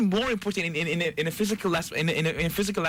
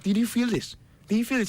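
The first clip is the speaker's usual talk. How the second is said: excited; 5 semitones higher than usual. Retold or imitated. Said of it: "I'm like".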